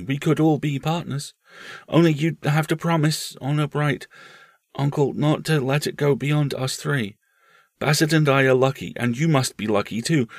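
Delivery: put-on high, eager child voice; earnest small boy. Boy offering his uncle a partnership, high and earnest. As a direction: propose it like a serious young boy.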